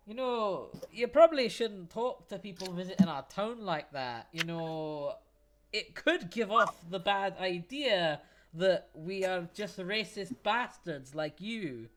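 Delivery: dwarf coolly scolding the guard; calm rebuke. Acted. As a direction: put the racist guard in his place. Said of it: "Torb kinda looks at it and he goes".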